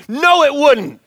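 loud laughing protest; fired up. Retold or imitated. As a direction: fire it back, laughing. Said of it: "he says".

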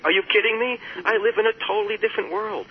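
high, loud mock outrage, voicing an angry listener; imitated furious reply. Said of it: "that person would get furious".

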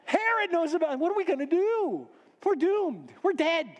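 high-pitched doom-laden wail; panicked despair. Acted. Man in the corner tells donkey they're doomed, panicked. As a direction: lament in a high, frantic voice.

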